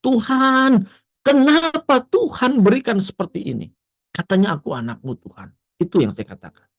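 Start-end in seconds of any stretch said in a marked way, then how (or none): 0.0-5.5 high, pleading cry to God, close to tears; retelling a tearful plea in a toilet stall, high and pleading; tearful prayer. Retold or imitated. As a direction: beg God why, voice breaking. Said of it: "saya menangis dan saya berdoa".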